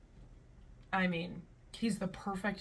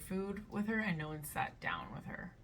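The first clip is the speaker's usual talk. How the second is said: whisper; 7 dB quieter than usual. Real, not acted. Trailing off into reading.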